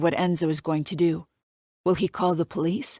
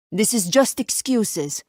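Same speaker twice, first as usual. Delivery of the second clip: put-on light Italian accent; 4 semitones higher, slower than usual. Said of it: "His Italian accent isn't even that thick".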